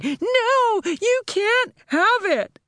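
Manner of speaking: shrieked high no; screaming. A narrator's reading. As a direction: scream it in panic. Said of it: "she was screaming".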